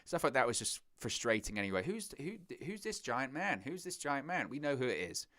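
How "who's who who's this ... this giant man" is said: higher, stammering feigned astonishment; mock bewilderment. Mocking commentary about a giant newcomer, feigned surprise. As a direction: mimic clueless commentators stumbling over the question. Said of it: "acted like they'd never seen this".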